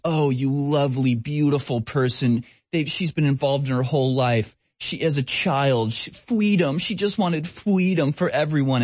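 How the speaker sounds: gushing journalist, lightly voiced; mock fawning. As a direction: sneer while imitating sycophantic praise. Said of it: "It's just fawning".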